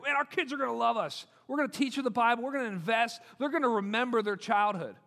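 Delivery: mildly gushing parent-to-be; imitating an enthusiastic parent; eager idealism. Voicing idealistic new parents.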